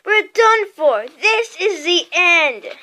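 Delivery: loud, high, drawn-out wail of doom; melodramatic, slow cry of defeat; moaning. A narrator's reading. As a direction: wail in panicked despair. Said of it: "Ron moaned".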